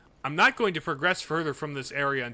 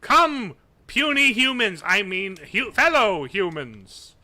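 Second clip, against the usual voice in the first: loud, slow, grandiose alien voice; dragon voice; 3 semitones higher, 5 dB louder, slower than usual. Pretend. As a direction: boom it out like a creature pretending to be human. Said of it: "Is that better?".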